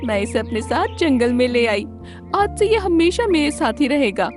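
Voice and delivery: high-pitched storybook fox pleading a case; clever fox. Acted. Fox explains the orphan crane to lion, high fox voice.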